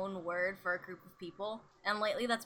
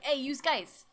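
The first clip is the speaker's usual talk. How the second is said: lightly mock New York greeting, louder and higher; New York-Boston call; 5 semitones higher, 4 dB louder than usual. Northerner hailing a group, mock New York-Boston accent. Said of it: "New York and, like, Boston".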